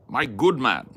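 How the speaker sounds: high, loud posh English gent; mock posh English with a swooping tune; posh English accent. Playing a posh Englishman, mock posh accent. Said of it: "Posh, yes. You gotta roll those R's".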